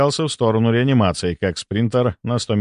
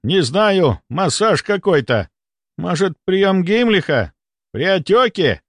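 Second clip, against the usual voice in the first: higher-pitched doubtful guessing; puzzled speculation; 8 semitones higher than usual. A narrator's reading. Onlookers wonder what the healer is doing, puzzled. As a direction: guess aloud, baffled.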